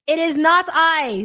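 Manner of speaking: high, loud, drawn-out theatrical denial; playfully hammed-up protest; mock-dramatic denial. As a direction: declare it grandly, slowly, as if on stage.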